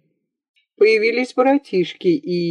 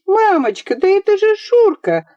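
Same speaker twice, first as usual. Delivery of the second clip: put-on much higher, delighted girl's cry; girl introducing her friend to mother, delighted; laughing cry; 13 semitones higher than usual. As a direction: cry it out with joy. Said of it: "закричала и засмеялась дочь".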